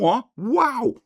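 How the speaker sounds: high-pitched playful wow; a high, showy burst of wonder; mock wow. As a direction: exclaim in mock amazement. Mock amazement at his overview.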